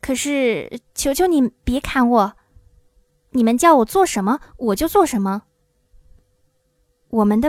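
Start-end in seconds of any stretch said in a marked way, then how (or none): 0.0-5.4 understated nervous pleading; a hint of a frightened little man; mildly trembling. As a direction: plead timidly for mercy. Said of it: "小个子男人声音发抖地说".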